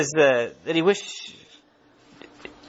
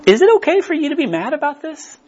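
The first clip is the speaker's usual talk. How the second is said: God's question; 9 semitones higher, 6 dB louder than usual. Acted. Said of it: "He's like".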